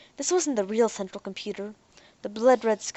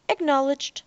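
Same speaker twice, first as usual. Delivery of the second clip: robot voice; 6 semitones higher, 3 dB louder than usual. Acted. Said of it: "said the hunter".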